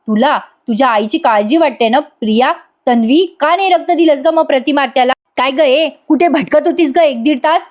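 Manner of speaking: mildly stern acted questioning; acted accusing cross-examination, slightly heated; confronting interrogation. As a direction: demand answers in front of everyone. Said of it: "Arjun सगळ्यांसमोर तिला जाब विचारतो".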